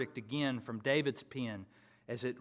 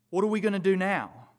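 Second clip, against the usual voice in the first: loud, raised panicked question; anxious cry; 5 semitones higher, 6 dB louder than usual. Retold or imitated. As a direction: plead for rescue. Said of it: "they ask".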